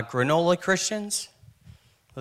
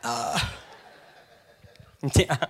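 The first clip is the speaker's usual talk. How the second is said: nervous fake praise; 6 semitones higher than usual. Nervous fake laugh at Ronnie.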